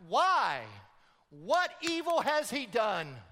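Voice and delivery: dumbfounded. Retold or imitated. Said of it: "Pilate is dumbfounded".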